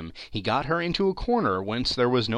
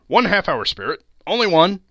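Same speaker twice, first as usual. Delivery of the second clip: loud, much higher eager plea; eager begging; 6 semitones higher, 7 dB louder than usual. A narrator's reading. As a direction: beg like an excited boy. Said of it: "he begged like a boy".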